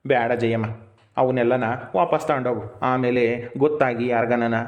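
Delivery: low-pitched, measured refusal; gently but firmly turn the gift down; grave, low voice; sober refusal. Acted. Brother soberly refusing sister's food.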